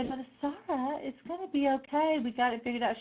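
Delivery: retold soothing, lifted in pitch; calming reassurance. Calming down an upset friend, high reassuring voice. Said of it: "I would try to calm her down".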